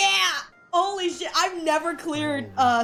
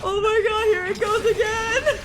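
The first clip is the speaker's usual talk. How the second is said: excited shout; 10 semitones higher than usual. Real, not acted. Big combo goes off again.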